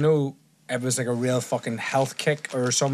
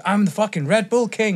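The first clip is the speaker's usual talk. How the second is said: higher-pitched, punchy boast in a put-on accent; Tristan Tate; 7 semitones higher, 4 dB louder than usual. Podcast guest telling his co-host a story, Tristan Tate impression. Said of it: "You sound like him. That's a good accent".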